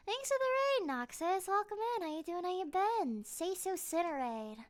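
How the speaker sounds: high, bright thank-you to chat; live streamer. Real, not acted. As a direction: greet the raiders cheerfully.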